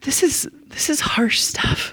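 slow conspiratorial whisper; a hushed aside on the harsh story. Real, not acted. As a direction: lean in and whisper it. Aside to the listeners.

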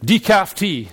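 broad Glaswegian call, starting high and loud, easing at the end; comic Glaswegian self-invitation, settling down; Glaswegian Jesus. Acted. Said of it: "Jesus has not got a Glaswegian accent".

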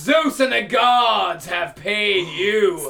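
mocking jeer at the giant; taunting. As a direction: taunt him from the ship. Taunting the blinded Cyclops.

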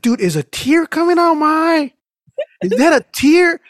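retold alarmed disbelief. Patient in the dental chair noticing a tear, high alarmed squeal. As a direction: squeak it out, shocked at your own tears.

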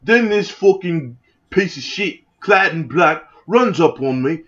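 hammed-up British bloke telling a tale; cartoonish British storyteller; bad British accent. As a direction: put on a rough attempt at British. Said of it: "This is the worst British accent".

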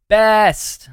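high, loud mock shout; kids yelling best. Kids shouting back to their dad in a high, loud mock shout. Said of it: "we would go".

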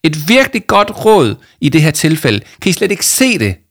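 high, loud, furious retort; raging shout. A narrator's reading. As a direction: shout it as if enraged. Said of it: "Jama, hun var rasende". (højt og rasende)

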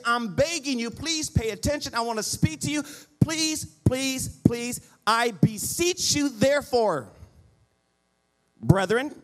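pleading preacher voice; fervent pleading preach. Acted. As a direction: beg them as Paul would, rising in force. Preacher pleading Paul's plea.

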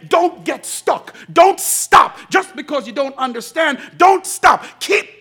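shouted, high and loud pleading; impassioned exhortation. Acted. Voicing Jesus urging the church, shouting. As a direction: cry it out like a rallying call. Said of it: "And Jesus is saying".

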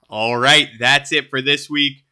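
stuffy, nasal voice. Real, not acted. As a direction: talk through a blocked nose. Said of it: "putting up with my nasally voice".

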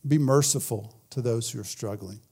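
soft, low, tender reading of the verse; gentle reading. Shown as a demonstration. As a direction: lay the words down gently. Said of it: "He says".

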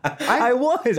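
laughing admission, pitched high; laughing while owning up. Real, not acted. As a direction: laugh through it. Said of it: "he was so pissed at me".

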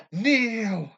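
high booming command to kneel; dark lord. Pretend. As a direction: roar it like a conquering villain. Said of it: "I went now to the Avengers".

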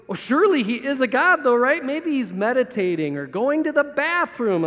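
lightly mocking, falsely reassuring; making fun. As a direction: needle them with pretend reasonableness. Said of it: "absolutely making fun of them".

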